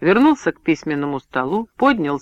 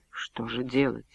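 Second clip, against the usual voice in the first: bewildered; 4 semitones lower, 10 dB quieter than usual. A narrator's reading. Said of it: "растерянно вырвалось у него".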